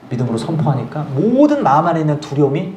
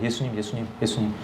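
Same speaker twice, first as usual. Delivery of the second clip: much softer murmured calling of Jesus; hushed repeated prayer; 5 semitones lower, 11 dB quieter than usual. Retold or imitated. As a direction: breathe the name again and again. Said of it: "예수님을 막 수백 번 외쳤습니다". (작게 반복하는 간절한 부름)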